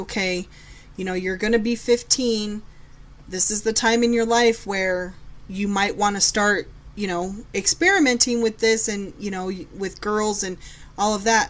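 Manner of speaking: ordinary delivery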